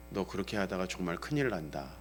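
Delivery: low, very quiet threat; restrained angry warning. Retold or imitated. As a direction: imitate a father warning under his breath. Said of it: "화를 낼 때가 있어요".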